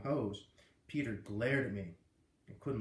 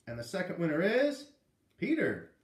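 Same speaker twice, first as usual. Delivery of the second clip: announcing the winner; 6 semitones higher, 6 dB louder than usual. A narrator's reading.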